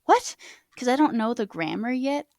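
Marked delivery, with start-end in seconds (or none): 0.0-0.4 retold confusion. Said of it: "I was like".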